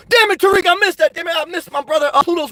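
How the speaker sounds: excited reaction to a missed comment. Real, not acted. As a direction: call out a friend's name excitedly. Excited greeting of live chatter.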